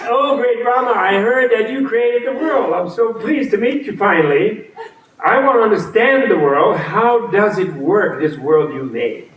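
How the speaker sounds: high, eager and overly polite, with a laugh; eager seeker. Retold or imitated. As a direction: flatter the god like a keen fan. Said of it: "and then Buddha said".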